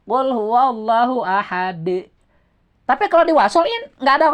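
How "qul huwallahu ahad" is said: slow, stopping on ahad with a bounced d; slow Quran recitation, pausing at the end; stop with qalqalah. Shown as a demonstration. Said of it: "wakop bacaannya, jadi timbul qalqalah".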